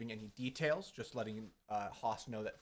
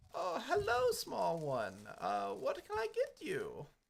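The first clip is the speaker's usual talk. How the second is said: put-on grandma character voice, higher pitch; 10 semitones higher, 4 dB louder than usual. Voicing a grandma shopkeeper greeting a small customer: grandma character voice. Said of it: "almost a grandma, uh, human that's like".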